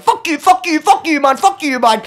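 high-pitched squealed swearing; gleeful high-voiced needling; playful taunting. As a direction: chant it to wind him up, without malice. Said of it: "But not in a hateful way".

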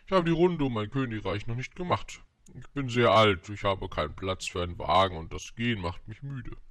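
lightly voiced old king, animated opening. Old king explains he is tired from walking, lightly acted royal voice. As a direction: play the king, starting forcefully.

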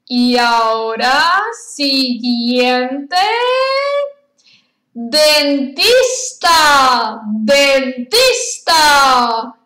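each word spaced out and repeated in threes. Shown as a demonstration. Teacher drills vocabulary to class.

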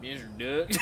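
MISTER DUCKS in a tentative redneck accent. Shown as a demonstration. Guessing at a riddle about two rednecks, redneck accent. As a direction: try a redneck accent, ending on a rise. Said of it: "is it in the accent".

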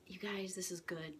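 hushed whisper so nobody wakes; whisper, family asleep nearby; whispering while hiding. Real, not acted. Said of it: "I hope you guys can hear me because everybody's sleeping".

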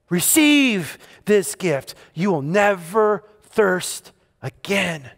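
slow and calm invitation; unhurried, tender promise; gentle Jesus voice. Acted. Jesus voiced, offering himself.

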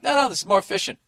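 husband faking that sitting is efficient; mock innocent husband. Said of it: "I'm gonna act like".

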